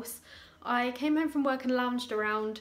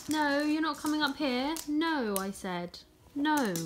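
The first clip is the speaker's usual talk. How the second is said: firm no; 6 semitones higher than usual. Real, not acted. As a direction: stop the dog climbing up. Dogs climbing on furniture.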